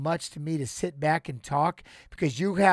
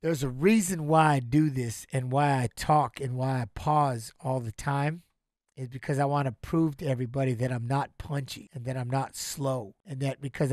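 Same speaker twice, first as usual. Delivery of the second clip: close to tears; 3 semitones lower than usual. Real, not acted. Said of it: "I'll start crying".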